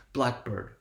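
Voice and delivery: "Blackbird" stressed first on "Black"; primary "Black", secondary "bird"; one-two stress. Shown as a demonstration. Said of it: "the one two stress".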